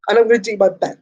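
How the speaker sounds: hoarse, voice giving out; lost voice. Real, not acted. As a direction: talk through a voice that's nearly gone. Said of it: "I lost my voice".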